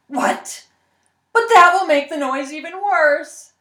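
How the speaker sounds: loud, high disbelieving protest; shocked protest. Acted. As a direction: protest in alarm. Man protests, alarmed.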